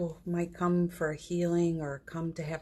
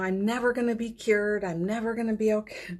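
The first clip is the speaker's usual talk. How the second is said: higher, quick hopeless worrying; mock despair, pitched up and hurried; despairing self-talk; 4 semitones higher, faster than usual. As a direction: rattle off the hopeless thoughts fast. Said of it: "If it is a lot, you know".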